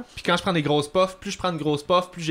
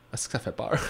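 whispered; 3 semitones lower, 8 dB quieter, faster than usual. Real, not acted. Scary drug-use moment.

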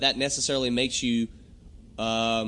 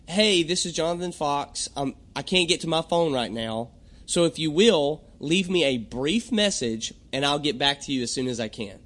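standard voicemail greeting. Retold or imitated. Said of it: "that's pretty much the standard".

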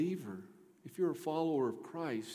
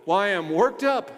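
real fired-up preacher, louder; worked-up pulpit voice; 7 semitones higher, 14 dB louder than usual. Real, not acted. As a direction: say it loud, still buzzing.

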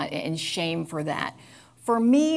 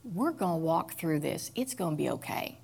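put-on soothing a child; 3 semitones lower, 7 dB quieter than usual. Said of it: "I just wrap my arm around her and I say".

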